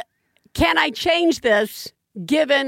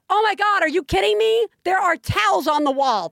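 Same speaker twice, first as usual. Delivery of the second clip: incredulous parental rant, pitched up; retold yelling; 5 semitones higher than usual. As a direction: re-enact losing your mind at a child. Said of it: "I yelled. I was like".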